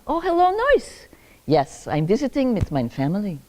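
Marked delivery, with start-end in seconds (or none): 0.1-1.1 fake sweetness. False sweetness greeting the nurse.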